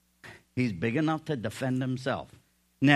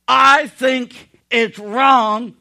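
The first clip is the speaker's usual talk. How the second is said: mock politician; 7 semitones higher, 11 dB louder than usual. Politician's off-topic answer.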